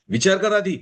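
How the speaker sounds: high, scornful warning; a hint of a proud father's threat; arrogant roar. A narrator's reading. Father warning the poor suitor, scornful. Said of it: "Ramapati गरजला".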